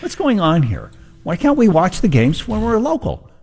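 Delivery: high-pitched mock-exasperated pundit; hammed-up high incredulous whine; Tucker Carlson. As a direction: squeak out baffled outrage, imitating a TV commentator. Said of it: "I just sounded like Tucker Carlson".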